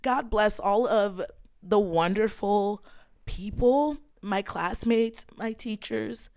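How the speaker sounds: real welling-up, pausing between phrases; getting emotional. Real, not acted. Thanking classmates and teachers, getting emotional. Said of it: "this is when I'm gonna get emotional again".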